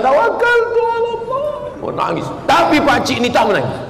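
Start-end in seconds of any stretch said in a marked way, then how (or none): 0.0-1.5 mock pilgrim prayer.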